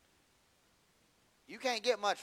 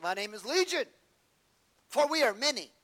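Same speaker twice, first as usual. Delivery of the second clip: demon voice; 6 semitones higher, 7 dB louder than usual. Acted. Demon answers Jesus.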